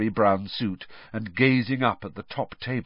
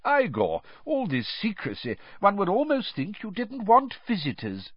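put-on gentle, teasing old headmaster; twinkling mild teasing; amused old wizard; 11 semitones higher than usual. Dumbledore voiced in audiobook.

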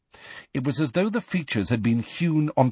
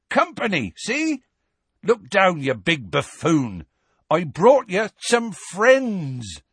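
high, insistent calling out; Hagrid shouting; 8 semitones higher, slower than usual. A narrator's reading. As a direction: shout up to get a giant's attention. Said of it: "Hagrid shouted".

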